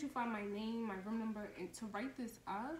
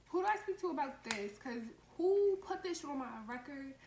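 louder, raised indignant complaint; angry demand; 3 semitones higher, 5 dB louder than usual. Retold or imitated. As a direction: demand answers like you've been wronged. Storming downstairs to complain.

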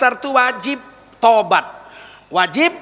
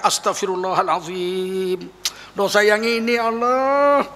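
tearful repentance; slower than usual. Acted. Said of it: "sampai keluar air mata".

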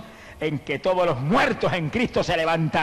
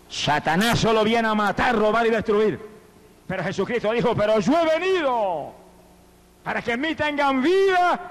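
preaching at full force; 6 semitones higher than usual. Acted. Preacher proclaims Christ's words to the congregation, fervent preaching. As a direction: proclaim it from the pulpit.

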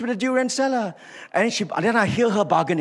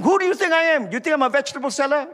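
indignant God; 6 semitones higher, faster than usual. Retold or imitated. Preacher voicing God rebuking a bargaining Abraham, indignant and fast. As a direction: retort as an offended God would. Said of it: "And God will probably say to him".

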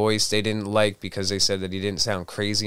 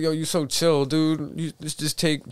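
higher-pitched imitation of a gushing bro; teasing, raised-pitch mock devotion; mock bro plea; 7 semitones higher than usual. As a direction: playfully act out an admiring buddy. Acts out joking plea to devil.

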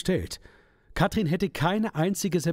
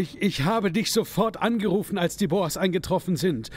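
higher, pleading and defensive; nervous defence; 6 semitones higher than usual. Acted. Shop owner anxiously pleads with the gangster about the late pickup. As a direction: plead your case anxiously.

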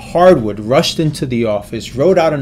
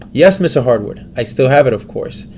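grateful. Acted. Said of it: "said Turkey gratefully".

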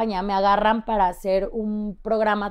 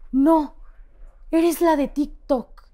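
higher, slow and emphatic; excited fan; 6 semitones higher, 4 dB louder, much slower than usual. Retold or imitated. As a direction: stretch out the recognition. Shop girl recognises her.

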